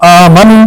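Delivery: आमनू with a quick rising clipped ending; wrong reading. Shown as a demonstration. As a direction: clip आमनू short, the error. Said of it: "नहीं पढ़ना है".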